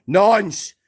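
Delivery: the same insult shouted high and loud; loud, jeering shout; yelled insult. Real, not acted. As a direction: fling it out as an angry shout. Insult yelled after plain take.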